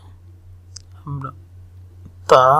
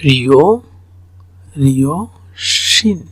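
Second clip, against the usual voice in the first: slow demo; much slower than usual. Shown as a demonstration.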